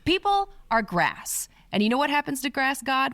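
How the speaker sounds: a fed-up prophet talking back to God; pissed-off prophet. Retold or imitated. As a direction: throw it back at God in exasperation. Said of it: "but pissed".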